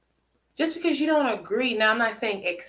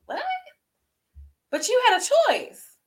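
rebuke; 13 semitones higher than usual. Acted. Preacher rebuking Adam's excuse.

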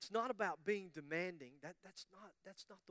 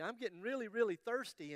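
"really thirsty" pleaded higher and more urgently; wife repeating her plea, higher and more pressing; insistent pleading wife; 4 semitones higher than usual. Acted. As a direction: push the "really" with rising urgency.

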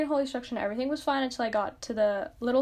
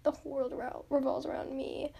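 mock whisper; 6 dB quieter than usual. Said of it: "I'm just like".

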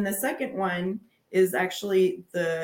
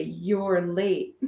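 sassy attitude. Shown as a demonstration. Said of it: "give a little attitude and say".

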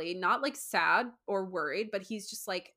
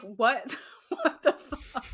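laughing disbelief; 2 semitones higher, slower than usual. Retold or imitated. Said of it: "I'm like".

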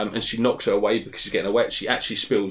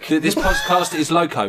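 higher, hammed-up Mexican accent; thick accent; 5 semitones higher, 4 dB louder than usual. The speaker talking over a heckling host, thick Mexican accent. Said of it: "your accent's too thick".

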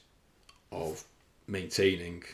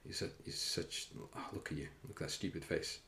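whispering; 3 semitones lower, 10 dB quieter than usual. Retold or imitated. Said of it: "I'm just gonna be like".

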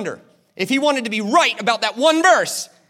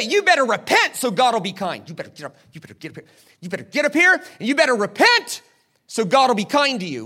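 mocking preacher; 3 semitones higher than usual. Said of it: "We say".

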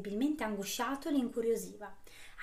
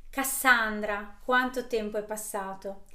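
put-on old hag; 4 dB louder, slower than usual. Old woman greets witch.

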